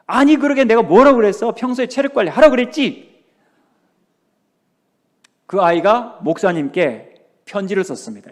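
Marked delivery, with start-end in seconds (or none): 0.1-3.2 higher, louder scolding; a mild mock yell at the sick son; half-acted scolding mother. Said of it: "고함을 지릅니다".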